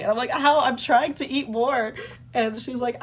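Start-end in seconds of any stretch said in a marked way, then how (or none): 0.3-1.9 high, incredulous comeback; retold baffled protest. Patient answering examiner about weight loss, incredulous protest.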